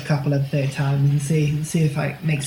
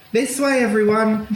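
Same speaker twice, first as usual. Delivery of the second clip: higher-pitched mild call to the group; acted shout; 6 semitones higher than usual. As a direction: call out to rally everyone, pitched up. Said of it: "I'm gonna shout".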